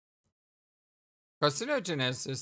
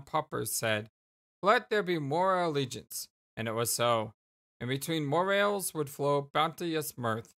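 mock biblical reading. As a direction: read it like an old holy text. Reads mock biblical passage.

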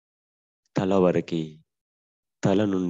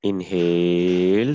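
breath cue; 6 dB louder, much slower than usual. Shown as a demonstration. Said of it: "cue for breathing in".

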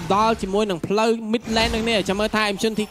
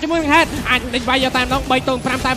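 live play-by-play; 3 semitones higher than usual. Real, not acted.

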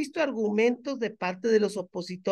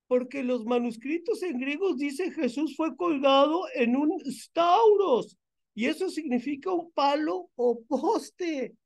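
higher, slow mocking imitation of the investigator; mocking quote of investigator; 6 semitones higher than usual. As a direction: read his words back in a sneering, higher put-on voice. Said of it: "Dice investigador Néstor Adán Venegas".

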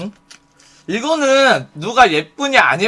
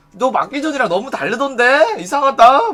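higher-pitched feigned puzzlement; pitched-up teasing doubt; 5 semitones higher than usual. Acted. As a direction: needle them with mock-innocent surprise. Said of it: "약 올려".

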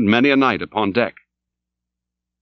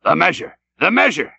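cried order; 6 semitones higher than usual. Acted. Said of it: "He cried on".

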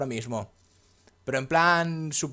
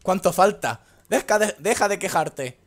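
whiny complaining character; 7 semitones higher, 8 dB louder than usual. Retold or imitated. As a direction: moan like a tired climber. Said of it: "en plan de".

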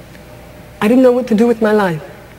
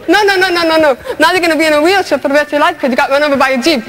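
higher, fast, piling on each blow; bossy voice of society; 3 semitones higher, faster than usual. Retold or imitated. Society decreeing a wheelchair, fast and higher. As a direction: rattle off the sentence like a cold verdict. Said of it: "society took me by the back of the neck and said".

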